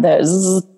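buzzy "zzz" zap noise; imitated laser zap. Speaker showing how laser tag zaps, imitated zap.

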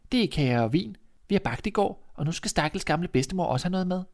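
put-on an innocent girl chattering away; little girl voice. Girl answers.

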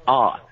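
ah, a flat open vowel for the long I; Texas long I. Shown as a demonstration. Texan guest shows her accent, flat ah for I. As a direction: flatten the I into ah. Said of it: "if we use a long I sound".

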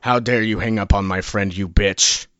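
loud furious shout at the clerk; hammed-up phone rage; angry yell. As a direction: scream it in mock outrage. Prank caller yelling at clerk.

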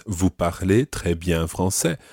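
"Vous parlez très bien français" said slowly and clearly; slow French demo. Shown as a demonstration. Teacher modelling the waiter's compliment, slow and clear. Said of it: "He says".

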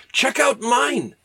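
high, drawn-out boast; showing off. Acted. Wells showing Verne his own airship, high showy boast. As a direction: show it off slowly in a high comic voice.

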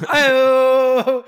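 loud high hype shout; excited Ayo. Real, not acted. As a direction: call it out like a hype man. Reacting to a burn.

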